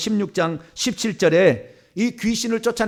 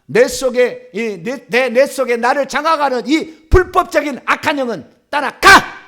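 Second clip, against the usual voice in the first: loud, insistent exorcism order; commanding; 3 semitones higher, 5 dB louder than usual. Shown as a demonstration. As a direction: banish it, punching the last word. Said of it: "이렇게 명령을 하는 거죠".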